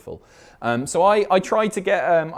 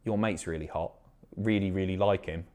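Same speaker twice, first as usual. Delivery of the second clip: mock club chat-up; 5 semitones lower, 7 dB quieter than usual. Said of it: "somebody coming up to you in a club and going".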